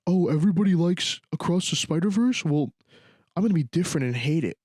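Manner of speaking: mock snooty contrarian. Mocking a contrarian hater.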